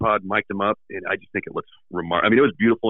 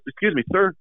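put-on polite old man; 11 semitones higher than usual. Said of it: "And he goes".

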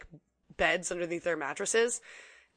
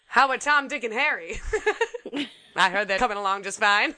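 laughing; 2 semitones higher, 5 dB louder than usual. Pretend. Imitating old-timey phrase, laughing.

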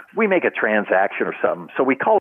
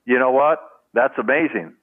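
mimicking the one-upper; 2 semitones higher than usual. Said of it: the speaker "was Topper".

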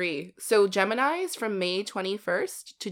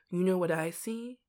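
soft, hushed retold reassurance; gentle chef; 2 semitones lower, 8 dB quieter than usual. Imitating a chef consoling a crying kid, softly. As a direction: quietly lead up to the comfort.

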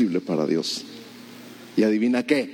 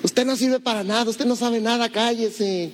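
mocking older brother; 9 semitones higher than usual. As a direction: drag it out to belittle him. Brother belittling David.

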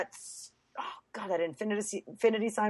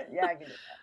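higher, softer flat robot reply; 8 semitones higher, 5 dB quieter, faster than usual. Retold or imitated. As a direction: chirp it like a tired robot butler. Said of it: "laughs, repeated answer".

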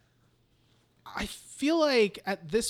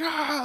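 mock scream; 8 semitones higher than usual. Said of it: "like, screaming and crying".

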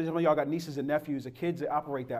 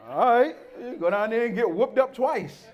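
grandma's voice; 7 semitones higher, 4 dB louder than usual. Retold or imitated. Grandma sending boy back.

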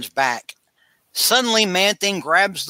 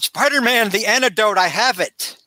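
raised, urgent call across the swamp; excited call; 5 semitones higher than usual. Retold or imitated. Armstead runs out to Spider-Man, an excited raised call. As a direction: hurry to announce the rescue. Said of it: "Armstead runs out".

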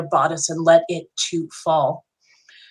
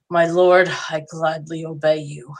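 grudging, teeth clenched obedience; through gritted teeth; 2 semitones lower than usual. Acted. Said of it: "I gritted my teeth".

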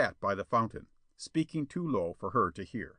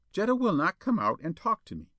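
higher, petulant whine; sulky child; 8 semitones higher than usual. A narrator's reading. Minister complaining to Spawn about Jetta, sulky. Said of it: "like a sulky child".

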